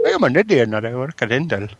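put-on Indian English accent, lightly done. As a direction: play an Indian caller with a mild Indian accent. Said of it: "Should I do an accent?".

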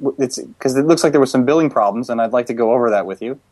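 prank caller voice. Pretend. Prank call as HP rep.

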